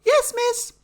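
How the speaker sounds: put-on very high child's voice, yes miss; mock pupil answer. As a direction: squeak like a schoolkid answering. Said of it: "the teacher calling you".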